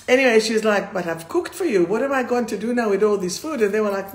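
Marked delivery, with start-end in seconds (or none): 0.9-3.6 lightly put-on Jewish accent. Client complains to her grown children about the uneaten roast, light mock Jewish accent. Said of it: "have to say it in a Jewish accent".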